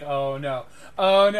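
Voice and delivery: a dealer who sees the cat coming; rising panic. Acted. Seller sees the cage opening, panic rising.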